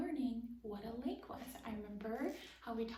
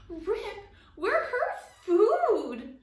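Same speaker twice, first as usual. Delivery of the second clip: high, very loud, slow panicked shriek; terrified shriek; 11 semitones higher, 16 dB louder, much slower than usual. Acted. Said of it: "Jessie shrieked".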